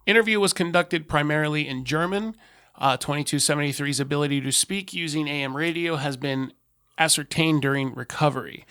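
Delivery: measured reading of an official report; file narration. Acted. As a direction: read out a case file, formally. Reads the interview log.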